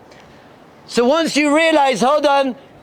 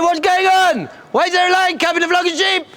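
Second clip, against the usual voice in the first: higher-pitched, baffled questioning; baffled outrage; 4 semitones higher than usual. Acted. Lion King spots his cub among sheep, baffled outcry. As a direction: demand an explanation, pitched up.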